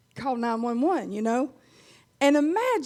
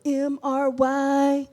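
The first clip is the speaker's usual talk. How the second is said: spelling slowly; 4 dB louder, much slower than usual. Pretend. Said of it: "I'm trying to talk proper".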